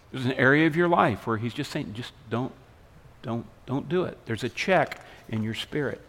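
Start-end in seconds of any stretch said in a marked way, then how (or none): 1.9-4.2 soft, understated warning; mock whispering. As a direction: imitate a quiet inner nudge, softly voiced. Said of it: "he may be whispering to you".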